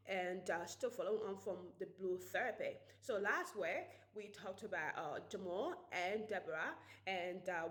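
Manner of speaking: light attempt at a British accent; a self-confessed shaky try at British English. Shown as a demonstration. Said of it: "I am going to do my British accent".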